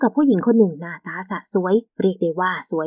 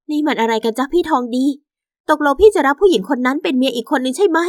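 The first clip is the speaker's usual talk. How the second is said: hurt wife confronting husband; 5 semitones higher than usual. Acted.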